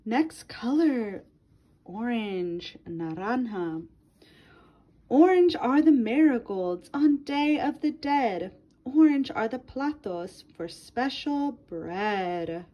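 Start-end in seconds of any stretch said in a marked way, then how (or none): 5.1-12.6 lilting read-aloud for a class; reading to children. Acted. Teacher reading a color book to her class, lilting read-aloud. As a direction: read it to little ones, rhyme by rhyme.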